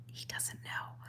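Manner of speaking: hushed whispered aside, imitated; very soft, retold warning; confidential whisper. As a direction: whisper it like a secret. Retelling being pulled aside and told.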